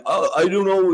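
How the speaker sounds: mock whiny politician. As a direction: whine it like a loser. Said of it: "sounded like a whiny loser".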